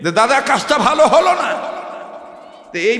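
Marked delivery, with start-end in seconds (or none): 0.1-1.5 complaint said through a laugh; a passenger's complaint, half laughing. Retold or imitated. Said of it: "এই লোকটা ডাক দিয়ে বলতেছে". (হাসতে হাসতে অভিযোগ)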